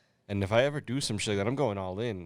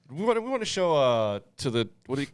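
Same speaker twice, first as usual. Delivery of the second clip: high, pompous courtroom voice; mock TV prosecutor; 5 semitones higher, 4 dB louder than usual. Mocking a crime show to friends, pompous prosecutor. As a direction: present it like a grandstanding lawyer. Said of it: "the episode of".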